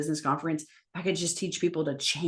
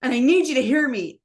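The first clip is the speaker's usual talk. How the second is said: retold tearful plea; 5 semitones higher, 5 dB louder than usual. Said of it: "he's crying".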